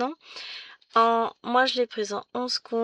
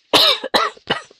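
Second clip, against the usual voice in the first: loud hacking cough; real coughing interrupting speech; coughing fit; 13 dB louder than usual. Real, not acted. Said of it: "je tousse".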